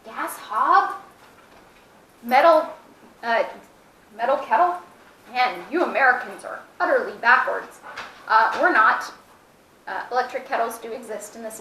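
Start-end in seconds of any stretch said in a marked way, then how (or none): 0.0-7.8 mock foreigner. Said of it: "who are saying".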